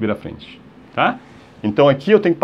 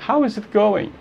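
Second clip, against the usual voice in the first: uncontracted, higher pitch; slow demo; 8 semitones higher than usual. Shown as a demonstration. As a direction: give "How is it going" in full. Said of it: "Se você falar devagar". (forma devagar, sem contração)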